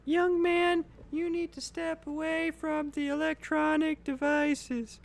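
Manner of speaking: high, scolding parent voice; stern parent voice. Acted. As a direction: scold the cat like a strict mom. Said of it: "My cat keeps".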